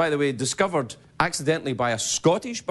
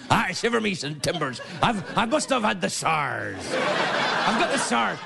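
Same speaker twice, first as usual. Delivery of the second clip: pirate voice; slower than usual. Pretend. Pirate with sars.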